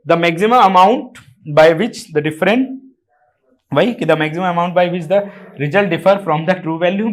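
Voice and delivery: slow, deliberate dictation of a textbook line; teacher reading a definition aloud slowly; dictating a definition. Acted. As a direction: spell it out word by word for notes.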